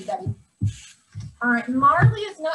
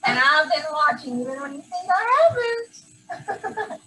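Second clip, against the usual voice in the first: laughing; 3 semitones higher than usual. Real, not acted. Teacher laughing during the award.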